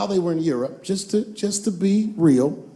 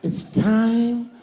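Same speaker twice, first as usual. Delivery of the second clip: heroic leader voice; 3 semitones higher, much slower than usual. Acted. Leader rallies the Care Bears.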